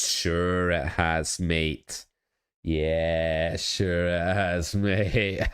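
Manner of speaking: slow, drawn-out mock Aussie sarcasm; sarcastic Aussie accent. Streamer doubts the changed title in a mock Aussie accent. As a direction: stretch it out in a jokey Aussie accent. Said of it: "Aussie accent".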